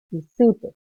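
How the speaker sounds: "supe" hit loudly on the "su"; loaded stress. Shown as a demonstration. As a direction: lean on the first syllable of supe. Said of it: "ahí le estoy cargando yo".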